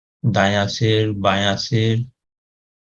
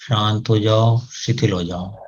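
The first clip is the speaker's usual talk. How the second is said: calm command, fading. Shown as a demonstration. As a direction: let the words sink away. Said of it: "आदेश दें उनको". (शांत आदेश जो धीमा पड़ता जाए)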